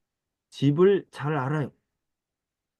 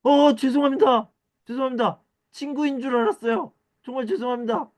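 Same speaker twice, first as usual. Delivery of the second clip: high, flustered apology to a stranger; embarrassed apology; 11 semitones higher than usual. Acted. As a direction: apologize quickly, caught out. Apologizing for mistaken identity. (당황해서 높은 목소리로 사과)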